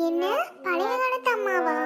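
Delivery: loud, slow, stunned echo; shocked disbelief. Acted. Mother called old-fashioned by her daughter, shocked disbelief. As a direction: repeat it loudly and slowly, aghast. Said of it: "உங்க அம்மா shock ஆனபடியே".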